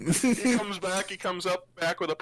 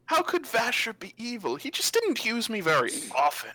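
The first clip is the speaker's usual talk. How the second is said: lightly voiced, innocent magic sword; naive talking sword, puzzled; 5 semitones higher than usual. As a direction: puzzle over your old master, lightly in character.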